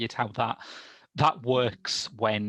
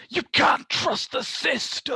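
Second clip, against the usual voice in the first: shouted, higher and slower; big mock rallying cry; mock proclamation; 8 dB louder, slower than usual. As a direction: proclaim it like a hammy preacher. Quoting film line as proclamation.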